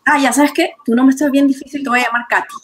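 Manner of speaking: chirpy, presumptuous quote; acted breezy dismissal. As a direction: brush it off breezily, imitating a careless acquaintance. Acted casual renaming of someone.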